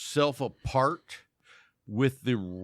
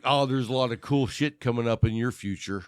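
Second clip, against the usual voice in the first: laughing tarot reader. Pretend. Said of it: "I would be like".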